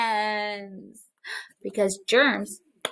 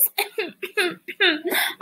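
demo cough; 7 semitones higher, 3 dB quieter than usual. Shown as a demonstration. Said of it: "I have a stuffy nose".

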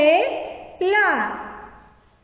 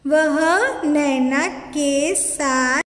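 very slow, word-by-word reading; slow read-aloud; much slower than usual. Shown as a demonstration. Teacher reads sentences slowly for children to repeat. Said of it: "मैं ये पढ़ रही हूँ".

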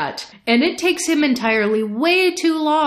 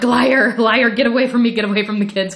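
mock panic; 3 semitones higher, 4 dB louder, faster than usual. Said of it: "utter panic".

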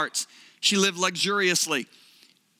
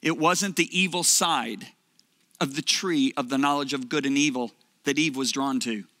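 voice of God; 6 semitones lower than usual. Retold or imitated. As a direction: speak as a calm father correcting his son. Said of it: "He said".

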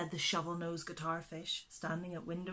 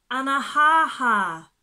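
slow, louder insistent correction; frowning correction; 6 semitones higher, 16 dB louder, slower than usual. A narrator's reading. Wasp correcting the animals, slow and cross. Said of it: "frowned the wasp".

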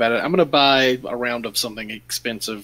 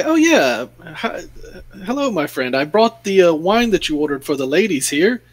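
higher, playful conspiratorial tone; sly wink; 4 semitones higher than usual. Acted. Player winks at Volo while offering wine, lightly raised. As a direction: play along with a knowing wink. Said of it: "wink and say".

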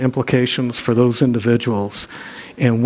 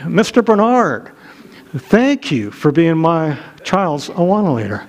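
higher, slow, sweet thank-you from a mom; grateful church lady; 4 semitones higher than usual. Retold or imitated. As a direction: mimic a polite mother thanking him, slowly. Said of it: "I hear a lady say".

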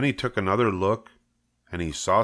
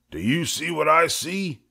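higher voice, hushed wonder; awed farmhand; 9 semitones higher than usual. Acted. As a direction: point at it in disbelief. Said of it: "he asked".

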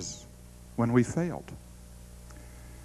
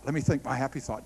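murmured to herself, faster and softer; soft, quick repeat; 2 semitones lower, 6 dB quieter, faster than usual. Retold or imitated. Daughter reminding herself, repeating it softly and quickly. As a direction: say it again under your breath, quickly.

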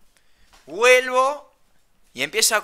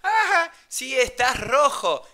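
higher mock posh lady voice; snooty old lady; 6 semitones higher, slower than usual. Old lady tells the sunburnt narrator he's red, in a high mock voice.

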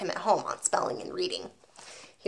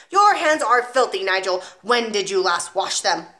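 1 disgusted headmistress; 5 dB louder than usual. Acted. Trunchbull inspects filthy hands.

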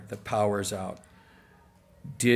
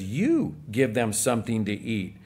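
"You" leído con énfasis, resto más llano; stress on you. Shown as a demonstration. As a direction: carga la palabra "You" al inicio. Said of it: "The emphasis is on you".

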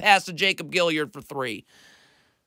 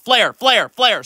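lightly raised flare call; mock defensive call; 3 semitones higher, slower than usual. Shown as a demonstration. Coach showing how a defender calls the screen, mild call. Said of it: "I'm yelling out".

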